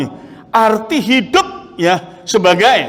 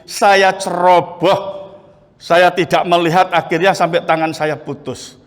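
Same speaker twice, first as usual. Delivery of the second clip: retold prayer; 3 semitones higher than usual. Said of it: "Saya berdoa bagaimana?".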